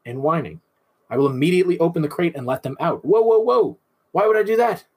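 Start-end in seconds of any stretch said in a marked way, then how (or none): 3.1-3.8 high, loud whoa of feigned shock; mock alarm. Host playing a shocked listener, hammed-up alarm. 4.1-4.9 high, loud, shocked question; mock disbelief. Host voicing shocked trainers, mock disbelief. Mock alarm at own advice.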